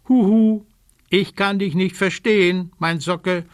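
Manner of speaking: playful raven calling out. Acted. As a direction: call down into the water. Calling into the water bucket.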